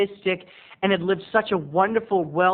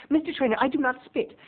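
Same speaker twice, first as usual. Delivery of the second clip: a touch higher, haughty refusal; lightly prim lady; 9 semitones higher than usual. Retold or imitated. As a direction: say it with mock primness. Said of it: "I'm calling everyone Mister Traynor".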